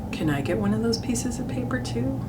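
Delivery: a hint of an eager little kid; little brother.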